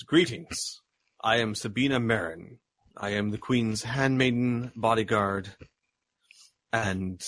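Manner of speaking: a lightly voiced stern bodyguard, curt and formal; measured, unsmiling, a hint of a stern royal guard. Queen's bodyguard greeting the party at the throne room door, mildly stern. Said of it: "in a very stern voice and says".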